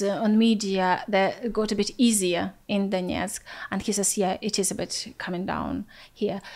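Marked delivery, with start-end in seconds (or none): 4.2-6.4 whispered, voiceless and softer; hushed reply. Retold or imitated. Cousin near Donetsk answering a text, whispered. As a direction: breathe it out as if someone might overhear. Cousin at front replies cautiously.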